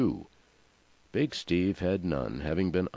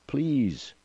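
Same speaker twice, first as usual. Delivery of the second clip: much higher, drawn-out begging; narrated cry for mercy; desperate plea; 8 semitones higher, 3 dB louder than usual. A narrator's reading. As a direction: implore them urgently. Mother begs for her babies.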